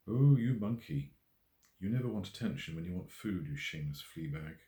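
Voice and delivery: fond teasing. Acted. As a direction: tease the cat like a beloved rascal. Jessica fondly scolds her cat.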